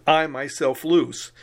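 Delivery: slow I myself loose with weight on myself; emphatic myself. Shown as a demonstration. Teacher demonstrating the emphatic English translation, stressed. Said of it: "If you want to really emphasize it".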